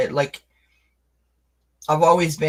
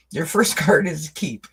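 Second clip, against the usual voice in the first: laughing. Real, not acted. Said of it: "I'm cracking myself up".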